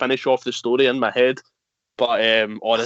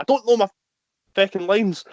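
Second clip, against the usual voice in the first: retold panic; 5 semitones higher than usual. So I start panicking.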